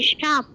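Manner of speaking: শার্প with no R sound; silent R. Shown as a demonstration. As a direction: say শার্প leaving the R unpronounced. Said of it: "এখানে আর এর উচ্চারণ হবে না".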